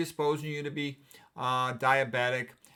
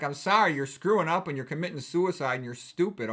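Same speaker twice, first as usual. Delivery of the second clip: retold rant. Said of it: "I didn't say it like that".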